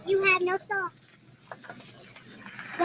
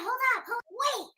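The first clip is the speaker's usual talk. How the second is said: mock outrage; 7 semitones higher than usual. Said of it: "So I said".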